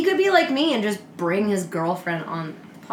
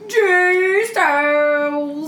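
excited; 7 semitones higher, 5 dB louder, much slower than usual. Acted. Hype introduction of guest.

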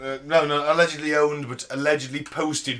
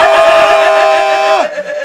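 panicked scream; 14 dB louder than usual. Pretend. Mock reaction to meeting aliens.

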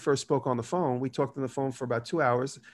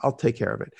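bright, eager, up and loud; eager outward yes; 3 dB louder than usual. Retold or imitated. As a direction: sell the confidence you don't feel. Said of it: "But outwardly, I'd be like".

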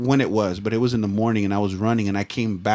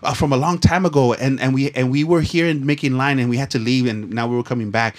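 imitating the lady. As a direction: squeak it out like the defensive lady. Voicing the lady, high fast.

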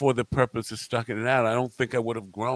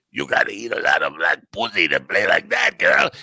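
put-on German accent; 7 dB louder than usual. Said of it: "I said".

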